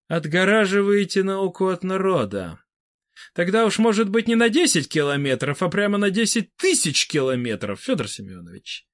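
scornful, high jab at the end; sarcastic demagogue. A narrator's reading. Vybegallo mocking Fedor Semenovich, sarcastic sneer. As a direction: sneer at the proposal.

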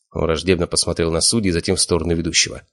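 plain reading voice

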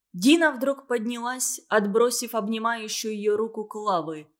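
plain reading voice

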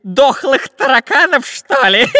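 high, loud mocking question; scoffing robber. A narrator's reading. Robber ridiculing the professor's doubt, scoffing. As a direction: jeer it, heading into a giggle. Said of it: "засмеялся разбойник".

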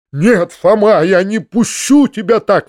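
exclaiming. Acted. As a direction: cry out to stop him. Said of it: "вскричал дядя".

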